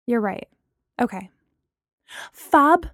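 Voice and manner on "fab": bright, beaming reply. A narrator's reading. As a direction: say it with a big grin. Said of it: "she beamed".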